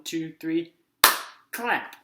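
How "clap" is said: excited cheer. Acted. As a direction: Clap shouted much higher and louder. Cheering the clap word.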